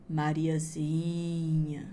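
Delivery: very slow, low, drawn-out eerie call; creepy witch call. Acted. Witch calls Mariazinha from the forest, slow and eerie. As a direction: stretch the name like a ghost in the dark.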